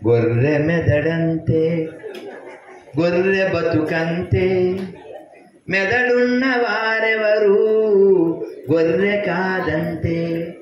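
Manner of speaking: slow, measured poem recital; recited verse. Acted. Speaker recites his sheep verse to the crowd, slow recital. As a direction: drawl each line like a rhyme.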